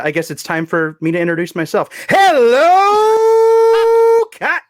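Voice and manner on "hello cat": loud high cartoon dog voice; Goofy impression. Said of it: "my awful Goofy impression".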